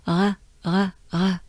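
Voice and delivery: "uh" as an exhaled French R; short breathy R bursts, tongue kept down; breath-like French R. Shown as a demonstration. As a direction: exhale each "uh" lightly from the throat. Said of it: "that's what I call a breath".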